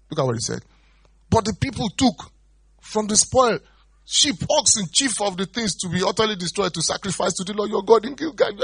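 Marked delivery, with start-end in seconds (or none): 1.3-8.6 high, loud excuse-making; blaming Saul. Retold or imitated. Saul blaming the people to Samuel, high and loud. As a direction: pass the blame high and loud.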